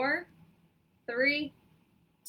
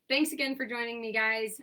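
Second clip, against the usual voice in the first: a bit raspy, just woke up; hoarse morning voice, feeling fine. Real, not acted. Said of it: "I apologize about the morning voice".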